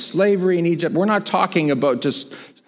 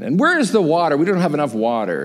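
mild mock grievance, hurried at the end; grumbling complaint; faster than usual. Israelites short of water, mildly grumbling. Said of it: "the grumbling and complaining starts again".

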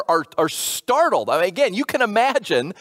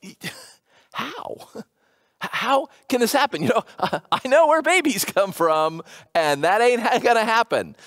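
incredulous laughing question. Retold or imitated. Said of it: "She's not being rude".

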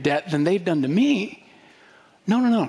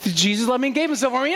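imitating a child's quick, higher rattle; rushed recital; 5 semitones higher, faster than usual. Daughter countering the lie in role play, rushed recital. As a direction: fire it off fast, pitched up. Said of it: "and then she'd go".

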